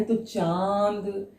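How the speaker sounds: चांद said very slowly, with a nasal vowel through mouth and nose; slow demo of चांद for pupils. Shown as a demonstration. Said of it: "इसको हम चांद बोलते हैं".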